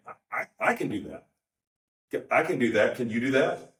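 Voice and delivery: playful boast. Retold or imitated. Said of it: "the subtext is".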